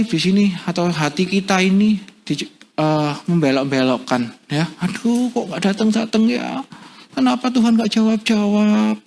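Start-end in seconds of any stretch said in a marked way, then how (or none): 4.8-9.0 whining grumble. Acted. Preacher mimicking a heart that doubts God will answer, whining. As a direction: grumble at a long wait, stretching the endings. Acted grumbling at unanswered prayer.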